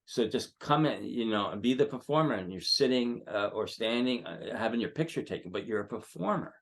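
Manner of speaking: emphatic, animated pep talk; getting excited while coaching; real excitement. Real, not acted. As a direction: fire up the performer, driving the words home. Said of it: "I'm getting kind of excited now".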